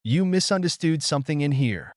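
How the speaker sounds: a hint of insistent protest in a character's line; lightly acted correction of a misunderstanding; lightly voiced Naruto, insisting. Naruto's dialogue in story.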